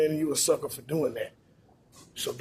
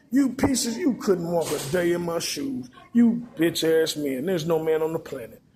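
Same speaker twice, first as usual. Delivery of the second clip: mock angry woman; 3 dB louder than usual. Woman berating the men around her, mock angry. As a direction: belittle the men she looks down on. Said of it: "talk about me like a dog".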